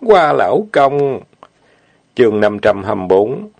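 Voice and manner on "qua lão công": tearful. Acted. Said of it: "nước mắt như chuỗi hạt châu".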